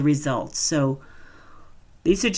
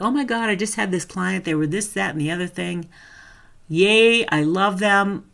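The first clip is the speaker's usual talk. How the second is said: gushing; 3 semitones higher than usual. Retold or imitated. Gushing about a perfect client.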